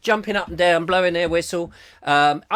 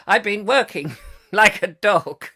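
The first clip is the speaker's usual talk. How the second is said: slow, raised mock-Shakespearean recital; drawn-out theatrical delivery; Peter Sellers; 4 semitones higher, 4 dB louder than usual. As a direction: declaim it like a stage actor, with pauses. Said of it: "Peter Sellers".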